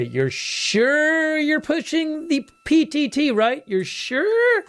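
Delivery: high, slow put-on radio controller voice; mission control voice. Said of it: "I really want the mission control to say".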